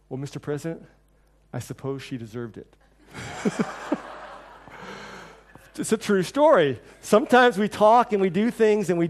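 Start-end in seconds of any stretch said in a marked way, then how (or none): 0.1-2.8 nervous reply. Retold or imitated. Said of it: "kind of nervous".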